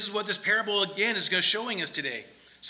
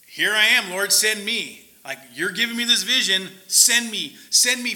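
louder and rising, eager; eager volunteer; 6 dB louder than usual. Acted. Isaiah answering the Lord, eager and getting louder. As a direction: push forward, begging to be sent.

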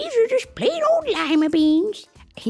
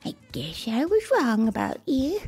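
mildly sad; 5 semitones higher than usual. Acted. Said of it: "the old woman said sadly".

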